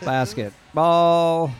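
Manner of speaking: slow, loud caveman word. Acted. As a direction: drag it out, brutish and loud. Caveman announcer repeats.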